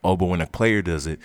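normal talking voice

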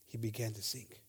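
very soft and low; low preacher's hush; hushed dramatic telling. A narrator's reading. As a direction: drop right down for the sinking. Preacher dramatizes Peter's sinking.

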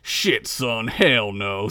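pipe-smoking stranger turning down the bard, low gruff. Acted. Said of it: "said the stranger".

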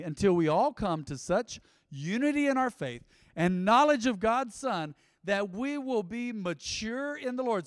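emphatic verse reading, drawn-out key words; scripture reading. Acted. Preacher reading the verse to his congregation, emphatic. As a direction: read it out with weight for the room.

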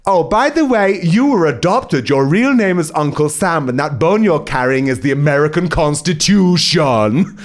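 high, mocking taunt; sneering up high at the dog; taunting man. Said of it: "Then the man says".

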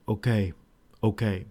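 low, quiet retold okay; lightly acted, soft resigned okay; understated acceptance. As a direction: imitate a restrained, quiet agreement. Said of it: "that facial expression, the way he says it".

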